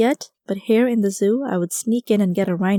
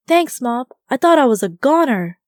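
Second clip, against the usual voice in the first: higher and louder, breathless with relief; relieved exclamation; 5 semitones higher, 6 dB louder than usual. Acted. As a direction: cry out thanks after a narrow escape. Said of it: "I exclaimed".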